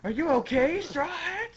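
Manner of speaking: very high put-on anime voice; hammed-up high concern; concerned rescuer. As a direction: check on a friend in a squeaky voice. Rescuer calls to Straw Hat.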